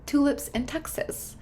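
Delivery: lightly voiced cheery mom, upbeat and breezy; chipper voice. Mom breezing into her son's room, chipper. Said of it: "in a chipper voice says".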